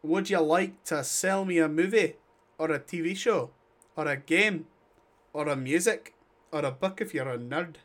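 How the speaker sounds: put-on muddled Scottish-Irish accent; lightly hammed-up, hard-to-place Scottish accent; dubious Scottish accent. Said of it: "What was that accent?".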